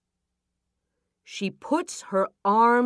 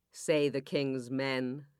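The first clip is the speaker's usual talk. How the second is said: plain reading voice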